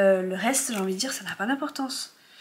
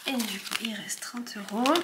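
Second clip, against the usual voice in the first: whispering; 5 dB quieter than usual. Real, not acted. Noting remaining amount.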